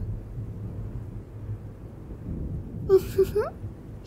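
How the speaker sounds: giggle, pleased with yourself. Acted. Pleased after making her offer.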